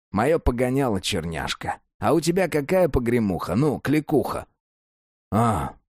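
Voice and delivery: lightly voiced streetwise prison con; a hint of a jailhouse old-timer; convict voice. Cellmate convict talking.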